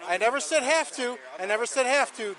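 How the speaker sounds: "have to" stressed, firm and falling. Real, not acted. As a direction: hit "have to" as if quoting it back. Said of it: "Don't put words in my mouth".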